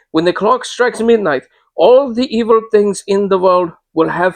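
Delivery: high, urgent fearful warning; distressed. Acted. Old lady warning of evil at midnight, high and distressed. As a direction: plead with dread in the voice. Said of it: "in such evident distress".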